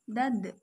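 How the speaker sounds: "dad" with a bounced final d; bouncing sound. Shown as a demonstration. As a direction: echo the dead da. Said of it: "terdengar suaranya memantul".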